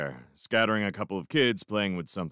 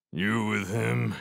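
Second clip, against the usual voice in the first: slow, sour challenge; sour demand; slower than usual. A narrator's reading. Foss suspicious of the stranger, demanding sourly. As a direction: draw the question out sourly. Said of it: "he demanded sourly to me".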